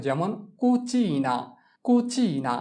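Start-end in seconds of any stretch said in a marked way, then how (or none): 0.6-1.4 slow model pronunciation. Shown as a demonstration. Teacher models example word slowly.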